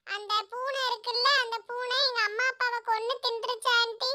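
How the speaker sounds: put-on mildly whimpering, plaintive child-mouse voice; tearful little mouse. Orphaned little mouse tells the kingfisher of its loss, tearfully. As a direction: plead through light acted sobs. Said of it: "அழுதுகிட்டே மீனுக்குருவி கிட்ட வந்தது".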